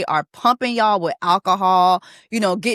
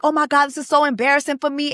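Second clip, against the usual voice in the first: fast, higher mock fretting; imitating embarrassed wife; 6 semitones higher, faster than usual. Wife complains of embarrassment to husband, mock distress. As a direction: rattle off her complaint in playful imitation. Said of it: "she's like".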